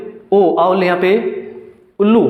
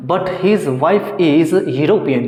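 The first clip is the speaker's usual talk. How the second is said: slow dictation; much slower than usual. Shown as a demonstration. Teacher dictates example sentence.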